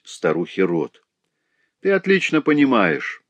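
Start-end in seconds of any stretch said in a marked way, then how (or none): 1.8-3.2 slow hoarse voice. A narrator's reading. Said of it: "продолжал он медленно осипшим голосом".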